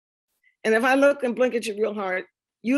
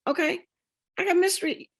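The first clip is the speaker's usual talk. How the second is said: much higher, tumbling and giddy; giddy excitement; 9 semitones higher, faster than usual. Retold or imitated. Retelling the cousin comparing ears with her, giddy and high. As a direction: bubble over about the family ears.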